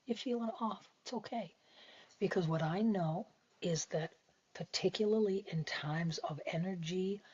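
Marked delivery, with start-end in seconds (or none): 0.0-1.5 soft, higher-pitched reassurance; self-soothing. Acted. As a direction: comfort yourself gently. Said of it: "I hold myself and I say".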